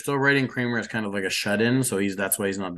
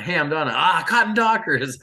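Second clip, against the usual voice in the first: mock her in a higher voice, stretching the catchphrase; imitated Kramer; 6 semitones higher, 4 dB louder than usual. Kramer doubling down on the commercial joke, high-pitched teasing imitation. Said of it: "Kramer does the, like, he just doubles down".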